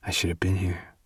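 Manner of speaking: soft unvoiced whisper; whispered heartbroken admission; whispered regret. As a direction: whisper it into her hair. Gray whispers his regret.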